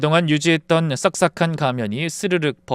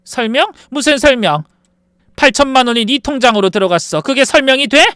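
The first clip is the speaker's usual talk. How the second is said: raised, indignant questioning; mother confronting daughter-in-law over the money, voice raised; angry mother; 9 semitones higher, 7 dB louder than usual. Acted. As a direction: demand answers from the daughter-in-law.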